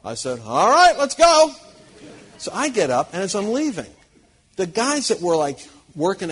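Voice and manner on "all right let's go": much higher and louder, quick and keen; eager yes. Retold or imitated. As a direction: jump at the invitation. Eager acceptance of pub invite.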